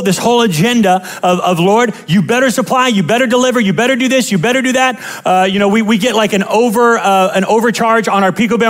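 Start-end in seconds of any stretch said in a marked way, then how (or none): 1.6-5.0 mock demanding prayer. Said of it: "we come in with this whole agenda".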